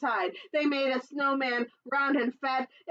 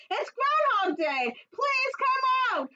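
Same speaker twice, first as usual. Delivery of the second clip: shout; slower than usual. Acted. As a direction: yell it up to the burrow. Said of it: "said with a shout".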